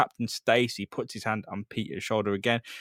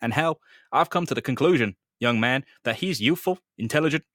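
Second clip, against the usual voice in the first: Captain Stacy voice; 2 semitones higher than usual. Acted.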